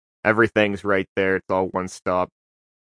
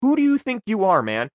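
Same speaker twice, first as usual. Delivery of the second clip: retold angry confrontation; 3 semitones higher than usual. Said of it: "I was like".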